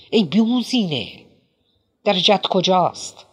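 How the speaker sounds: a hammed-up indignant shout; shouting protest. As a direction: yell back in outraged denial. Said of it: "فریاد زد".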